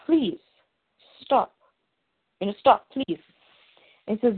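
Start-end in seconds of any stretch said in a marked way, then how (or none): 0.0-3.2 retold plea. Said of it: "Clark is pleading with him".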